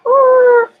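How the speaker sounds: ooh. Real, not acted. Reacts to sunset going down.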